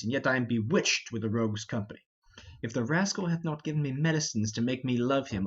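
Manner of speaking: a fat old knight lightly voiced, complaining; a hint of a weary rogue muttering his woes; grumbling Falstaff. Falstaff abandoned by his fellows, lightly grumbling.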